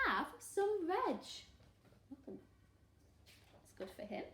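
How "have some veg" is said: high, slow singsong hoot; friendly duckbill call; hooted invitation. A narrator's reading. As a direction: offer it in a drawn-out hoot. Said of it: "And they hooted".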